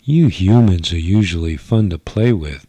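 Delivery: a bored rebel toying with him; teasing alien girl. Acted. Sheila mocks him.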